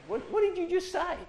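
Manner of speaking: high, shocked, hammed-up question; mock outrage. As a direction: pretend to be scandalised. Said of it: "I said".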